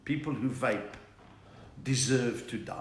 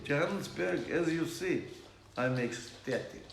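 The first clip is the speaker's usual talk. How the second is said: put-on Russian accent; 3 semitones higher than usual. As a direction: drag it out like a Russian movie heavy. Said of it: "A Russian accent".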